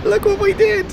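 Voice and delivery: high-pitched, laughing amazement; laugh, then exclaim high and stretched; delighted laughing. Real, not acted. Player shows off the falling skyscraper, high delighted laughing.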